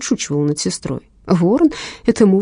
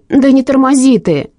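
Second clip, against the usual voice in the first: loud, higher bark at the chief; 6 semitones higher, 7 dB louder than usual. Acted. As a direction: bark it, out of patience. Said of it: "рявкнула Инга". (громко рявкнуть)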